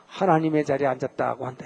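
usual speaking voice

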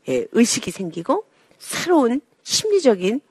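ordinary talk, nothing marked

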